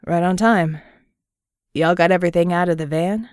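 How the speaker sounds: lazy, confident Southern greeting. Acted. Murdoch greets the team.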